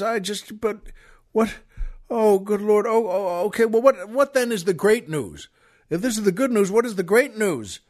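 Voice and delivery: stammering, acted bewilderment; flustered disbelief. Husband handed crabs after his wife's death, flustered. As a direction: stumble from lost for words into baffled questions. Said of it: "the man doesn't know what to say".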